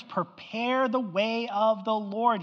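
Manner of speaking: slow, drawn-out scripture proclamation. Acted. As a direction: proclaim it slowly like a herald.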